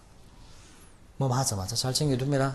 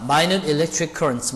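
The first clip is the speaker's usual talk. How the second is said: slow read; much slower than usual. Shown as a demonstration. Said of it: "이게 무슨 말입니까?".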